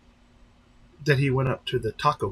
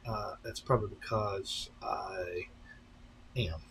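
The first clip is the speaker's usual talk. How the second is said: breathy confessing whisper, slower; whispered aside; 3 semitones lower, 12 dB quieter than usual. Real, not acted. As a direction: let it drop to a sheepish whisper. Confessing he skims the chat.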